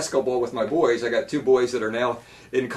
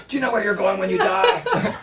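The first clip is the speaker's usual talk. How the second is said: a touch of mobster menace; mafia hitman voice; 5 semitones higher than usual. Retold or imitated. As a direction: hitman asking the question. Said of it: "talking like a mafia hitman".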